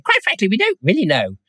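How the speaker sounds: high-pitched, badly faked impersonation; Patrick Moore. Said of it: "that's a terrible impersonation".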